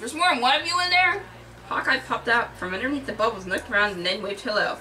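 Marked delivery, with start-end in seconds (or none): 0.0-1.2 high, raised-voice incredulous question; screamed disbelief. A narrator's reading. Tony learns of others in his tub, high incredulous cry. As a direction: ask it aghast, climbing in pitch. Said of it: "Tony screamed".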